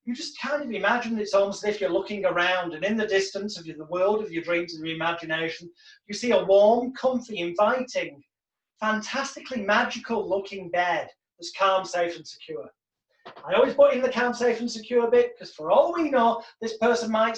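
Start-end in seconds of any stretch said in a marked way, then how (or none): 0.0-11.8 soothing hypnotist read; hypnotic script. Shown as a demonstration. Hypnotist describing the magical bed to the client, soothing. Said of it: "And then we say to them". 11.8-12.7 safe and secure, dropped soft and gentle; soft hypnotic phrasing. Shown as a demonstration. Hypnotist lulling the client, soft. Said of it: "And then we say to them".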